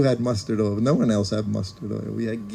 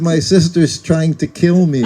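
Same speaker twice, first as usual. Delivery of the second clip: mock alarmed complaint; 5 semitones higher, 8 dB louder than usual. Guru's exclaimed complaint, laughing.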